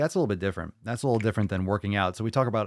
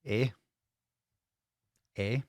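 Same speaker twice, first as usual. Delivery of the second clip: playful higher-pitched Irish lilt, laughing into it; mock Irish accent; 4 semitones higher than usual. Podcast host welcoming a Canadian viewer, mock Irish brogue. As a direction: ham up a jolly Irish welcome. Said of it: "it gets like Irish".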